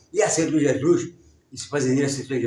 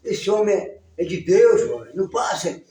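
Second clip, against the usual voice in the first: retold higher-pitched plea; mild mock yell, pitched up; daughter's cry to father; 6 semitones higher than usual. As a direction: imitate a girl calling out to stop her father. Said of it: "a filha dele gritou lá".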